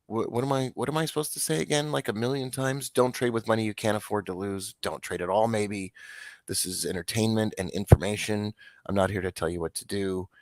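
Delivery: seen-it-all routine reminder; said-it-a-million-times tone. Real, not acted. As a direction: recite it like an over-repeated warning, not sarcastically. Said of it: "just in this tone of voice because I've said it so many times".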